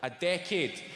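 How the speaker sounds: ordinary talk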